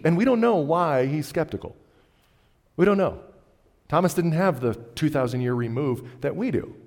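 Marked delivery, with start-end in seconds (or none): 0.0-3.2 loud, high stress on don't; emphatic. Real, not acted. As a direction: hammer the unknown. Preacher pressing the point home.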